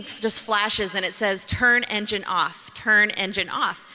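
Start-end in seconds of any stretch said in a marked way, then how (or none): 1.4-3.8 slow, even machine voice reading an alert; flat robotic dashboard warning; the car's automated voice. Retold or imitated. Car dashboard alert message.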